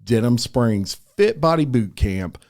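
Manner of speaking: measured, friendly podcast ad read; sponsor ad read. Acted. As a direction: read it as a polished sponsor spot. Reads a sponsor ad.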